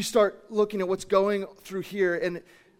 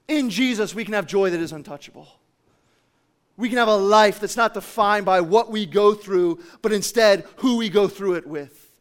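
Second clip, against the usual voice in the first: impassioned preaching; 3 semitones higher, 8 dB louder than usual. Real, not acted. Preaches at full force.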